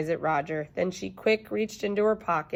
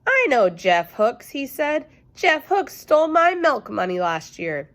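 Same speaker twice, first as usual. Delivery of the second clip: put-on indignant boy; 8 semitones higher, 6 dB louder than usual. Roger complaining.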